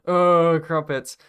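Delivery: put-on high, loud hammy British accent. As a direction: ham up a stereotype British voice. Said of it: "you gave him a British accent".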